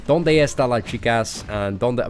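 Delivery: Spanish with a heavy British accent; awful Spanish accent. Shown as a demonstration. Streamer showing chat the only Spanish known, awful Spanish accent. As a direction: attempt Spanish in a clumsy English accent. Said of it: "my Spanish accent is bloody awful".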